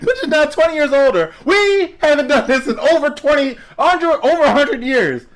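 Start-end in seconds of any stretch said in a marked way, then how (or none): 0.0-4.1 high and loud, laughing through it. Real, not acted. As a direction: crack up while repeating the punchline. Repeats the punchline, laughing.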